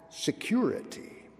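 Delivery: security whispered, no voice; whispered word. A narrator's reading. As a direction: breathe the word security in a hush. Dramatic hushed word in tale.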